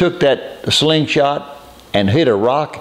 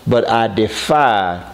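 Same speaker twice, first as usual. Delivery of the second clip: slow defiant words; slower than usual. Shown as a demonstration. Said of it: "key word".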